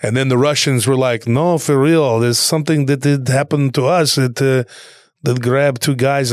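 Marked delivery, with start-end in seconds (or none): 1.3-6.3 mock Russian accent, earnestly insisting; lightly put-on Russian accent. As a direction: imitate Russian soldiers in accented English. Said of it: "they're not gonna be speaking Russian".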